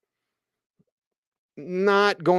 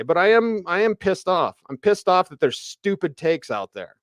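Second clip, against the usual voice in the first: real irritation, pitched up and pushed; fed up and venting at the fake controversy; pissed-off rant; 4 semitones higher than usual. Real, not acted. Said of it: "as I'm ranting today".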